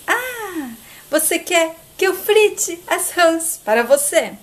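high drawn 'ah', then pointed question; mock incredulity. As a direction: feign interest in a high voice. Olga reacts to frying demand.

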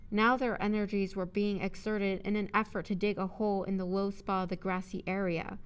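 measured audiobook narrator; narrating prose, carefully enunciated; story narration. A narrator's reading. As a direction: read the story aloud clearly.

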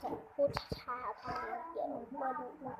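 slow, careful delivery; slow down so everyone can follow; speaking slowly. Real, not acted. (พูดช้าๆ ชัดๆ)

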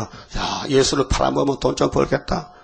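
hushed, sly aside as Judas plotting; scheming whisper. Retold or imitated. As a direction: whisper it like a greedy secret. Judas's scheming thought voiced.

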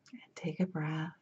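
soft-spoken, measured meditation guide with long pauses; guided meditation. Acted. Healer guiding listeners to settle into themselves, gentle guided meditation. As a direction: ease them gently inward, leaving space between phrases.

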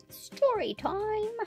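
high, drawn-out alien announcement; little alien. Pretend. Alien calls story time.

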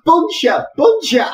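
loud high call upward; shouting a name. Acted. Engineer calling up to the attic, loud. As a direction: yell up the stairs to him.

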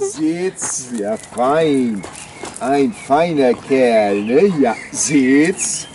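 talking to a dog. Real, not acted. Commanding and praising the dog.

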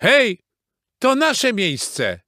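high, loud, drawn-out protest; indignant call. A narrator's reading. Rooster to beavers at the beach, calling out. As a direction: cry out to claim the spot. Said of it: "zawołał Kogut".

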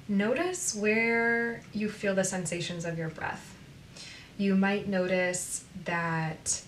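unhurried guide with long pauses between phrases; guided meditation. Acted. Coach moving listeners from breath to body, guided meditation. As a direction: lead them gently through breath and body.

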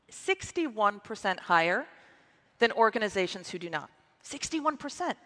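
excited, emphatic reveal of a big figure; stage-presenter excitement, savoring the number; contained excitement. Real, not acted. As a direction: let the excitement show while keeping it measured. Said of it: "there's some excitement in my voice".

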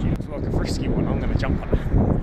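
loud, keen wildlife-wrangler; loud excited. Pretend. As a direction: shout it mid-wrestle. Loud excited croc-wrestling host.

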